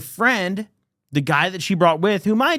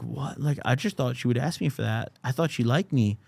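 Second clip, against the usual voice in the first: confused quiet reply; 3 semitones lower, 6 dB quieter than usual. Retold or imitated. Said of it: "He was like".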